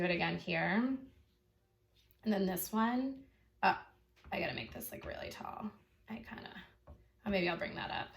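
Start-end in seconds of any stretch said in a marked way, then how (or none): 4.3-8.1 muttered to herself. Real, not acted. Muttering while drawing.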